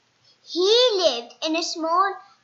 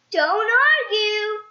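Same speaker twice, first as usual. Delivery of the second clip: slow, higher, louder insistence; slow firm Mister Happy; 7 semitones higher, 8 dB louder, slower than usual. Acted. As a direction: tell him firmly but cheerfully.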